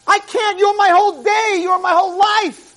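lightly voiced God pleading with love; Hashem speaking. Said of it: "Hashem says to you".

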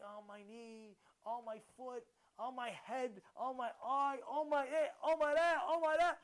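lightly acted litany of aches, steadily building; mock complaining. Imitating a ninety-year-old listing aches, complaining. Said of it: "he's complaining".

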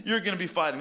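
mock-sorry, sarcastic God with a laugh; lightly voiced God, mock apology. God telling the Jews they must fight, sarcastic.

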